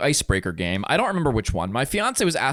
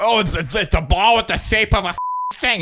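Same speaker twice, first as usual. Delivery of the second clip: mock expert; 4 semitones higher than usual. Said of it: "And you're like".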